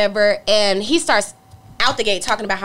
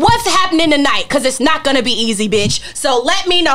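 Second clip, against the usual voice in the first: tough challenge; 3 semitones higher, 4 dB louder than usual. Retold or imitated. Threatening stranger in elevator.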